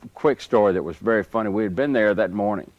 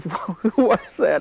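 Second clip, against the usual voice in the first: a singer's puzzled question, pitched higher and slowed; a lightly voiced singer, curious and drawn out; imitating a singer; 11 semitones higher, much slower than usual. The singer asking his friend who knocked, in a higher, slow voice.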